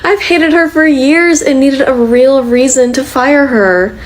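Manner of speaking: pleased, vindictive glee; gleefully excited. Acted. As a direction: relish it, stretching the words. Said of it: "You sound so excited about that".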